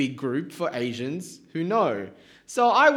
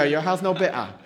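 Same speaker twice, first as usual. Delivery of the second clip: put-on louder Singaporean accent, echoing Jess; 3 dB louder than usual. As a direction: repeat it in mild Singlish. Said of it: "See, there you go".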